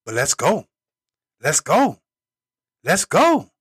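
building hype call. Real, not acted. Hype closing chant.

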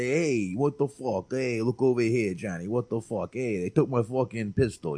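lightly put-on New York street-guy accent. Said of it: "like, the New York accent".

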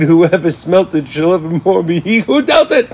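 a slow, solemn mock prophecy; old gypsy woman. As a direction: intone it like an old gypsy casting a curse. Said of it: "an old gypsy woman was walking by".

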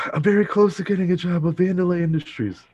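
high, fast, loud panting delivery; mock out of breath. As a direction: blurt it out as if winded, imitating urgency. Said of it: "all sweaty and out of breath".

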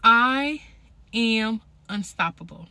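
loud punch on I, then firm; booming motivational speech. Shown as a demonstration. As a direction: declare it boldly. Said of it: "tell yourself".

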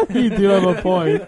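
slow, laughing concession. Real, not acted. Laughing at joke.

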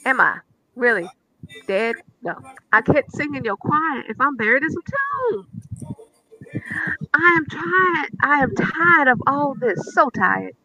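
lamenting reading with long pauses, like a sermon; dramatic psalm reading. Acted. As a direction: read the psalm as a theatrical lament with ad libs. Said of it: "it sounded in my head with the extra ad libs".

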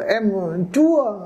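mumbling rookie broker. Retold or imitated. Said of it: "nó cứ lúng ba lúng búng".

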